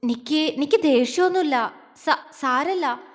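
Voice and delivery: flustered stammer, words catching. Acted. Girl stammers to her husband, flustered stammer. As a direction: she stumbles over the words. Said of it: "അവൾ വിക്കിക്കൊണ്ട് പറഞ്ഞു".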